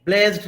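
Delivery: ब्लेज्ड ending in a voiced "d". Shown as a demonstration. Teacher showing what not to say, ब्लेज्ड with a voiced d. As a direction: wrongly close ब्लेज्ड on a d sound. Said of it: "ये नहीं कि हम ड की तरह pronounce करेंगे".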